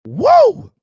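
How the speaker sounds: a long, high, loud whoa of amazement; surprised whoa. Real, not acted. Streamer floored by something in the chat, loud amazed whoa. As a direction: blurt it out, floored by what he sees. Sudden reaction on the livestream.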